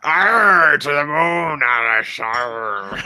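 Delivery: pirate-style Jackie Gleason impression; Phil. Shown as a demonstration. The speaker imitating Phil's Jackie Gleason, hammy pirate shout. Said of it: "my impression of Phil doing an impression".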